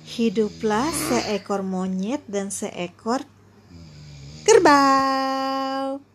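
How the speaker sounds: a gentle bedtime storyteller; bedtime story. Acted. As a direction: read it like a bedtime tale. Ibu mendongeng sebelum tidur. (mendongeng sebelum tidur)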